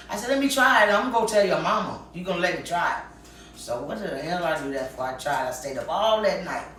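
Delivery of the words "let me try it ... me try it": insistent. Retold or imitated. Insisting friend lets her try.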